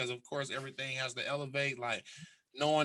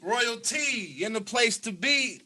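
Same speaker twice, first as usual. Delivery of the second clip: drawn-out hype-host announcing, rising higher; show host intro; 4 semitones higher, 6 dB louder, slower than usual. Pretend. Host introducing self to listeners, announcer flourish. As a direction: announce yourself, stretching the name and ending high.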